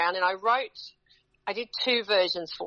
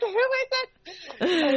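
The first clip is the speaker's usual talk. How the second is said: retold crowd; 12 semitones higher, much slower than usual. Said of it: "They're like".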